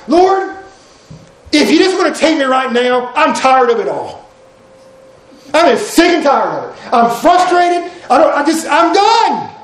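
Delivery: high, exasperated prayer rising to a shout on the end; venting to God, sick and tired, ending in a yell; fed-up outburst. Retold or imitated. Frustrated believer praying to the Lord, an exasperated outcry. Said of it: "you almost wouldn't mind saying it out loud".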